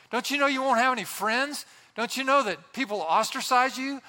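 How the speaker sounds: mocking voices. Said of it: "all the voices are screaming".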